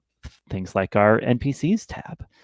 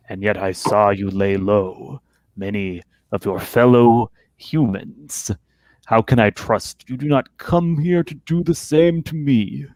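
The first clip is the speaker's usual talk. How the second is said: rumbling troll voice. Acted. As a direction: speak as a looming cave troll. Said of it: "the rumbling voice speaks again".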